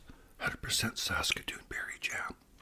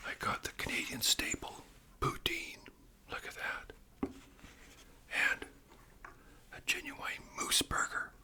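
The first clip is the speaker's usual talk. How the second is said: ASMR whisper; 9 semitones higher than usual. Acted. Host whispering about Canadian food to viewers, ASMR whisper. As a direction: whisper each word like sharing a treat.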